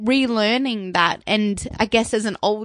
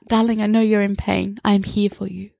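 a light hint of the monk's accent, voice barely shifted; half-hearted take on his accent, affectionate; Thich Nhat Hanh accent; 3 semitones lower than usual. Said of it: "I wanna do the accent 'cause his accent is so cute".

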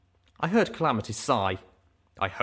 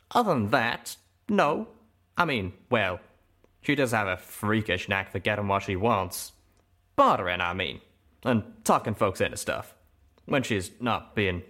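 Calamity's voice, scoffing. Acted. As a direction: brush it off in the cowpoke voice. Calamity rambling in his voice.

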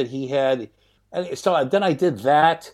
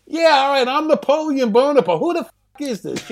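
sarcastic; 11 semitones higher than usual. Retold or imitated. Mocking a prank caller.

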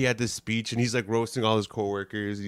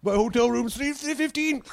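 mock goofy guy; 10 semitones higher than usual. Bald guy's fake name joke.

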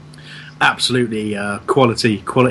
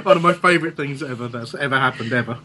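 laughing till crying; gasping words through real laughter; catching breath midword. Real, not acted. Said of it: "I'm crying".

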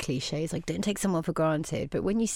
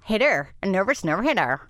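attempted American "nervous nerve hitter", r's sounded; deliberate mock-American accent. Shown as a demonstration. Practising the American accent again.

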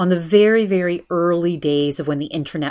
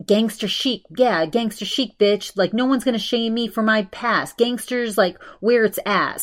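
higher-pitched, playfully defiant quote; cocky put-on swagger, pitched up; mock gangster bravado; 5 semitones higher than usual. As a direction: imitate a brazen, unashamed boast. Acting out a defiant post.

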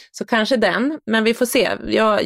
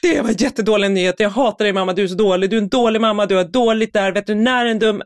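put-on upset child; 3 semitones higher than usual. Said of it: "Han bara".

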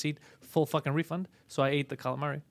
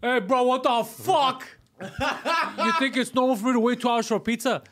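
higher, drawn-out mock outrage; mock irate customer; 7 semitones higher, 3 dB louder, slower than usual. Customer confronting a late pizza driver, mock irate. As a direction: chew out the driver, hammed up for laughs.

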